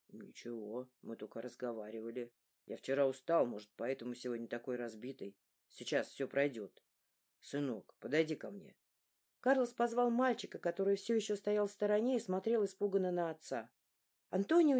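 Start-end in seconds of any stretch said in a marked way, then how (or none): 0.1-8.7 lower, tired father voice; lower weary man. A narrator's reading. Groggy father quietly reassuring his worried family. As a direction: answer like a worn-out father, low and soft. Weak Carlos answers family.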